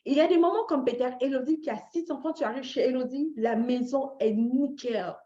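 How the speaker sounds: ordinary talk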